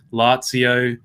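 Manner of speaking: Lazio said as LAHT-see-oh, with a ts sound; odd pronunciation. Real, not acted. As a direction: say Lazio with a ts in the middle. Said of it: "never heard Lazio pronounced like that".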